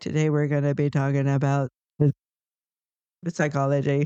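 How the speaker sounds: low, dry, lifeless monotone teacher drone. Recalling a dull class, quoting the teacher: imitating a monotone teacher. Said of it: "she was just so monotone".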